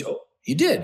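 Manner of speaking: high-pitched questioning echo; mock surprise. Friend reacting to his admission of yelling, surprised. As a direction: jump up high as if taken aback.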